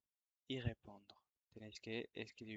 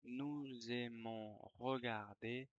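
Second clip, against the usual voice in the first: dictation reread. Shown as a demonstration. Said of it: "Je vais relire la dictée".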